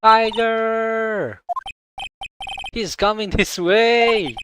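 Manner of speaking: alarmed cry. Acted. Phoenix warning Maya the tiger is coming, alarmed. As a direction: yell a warning as it charges.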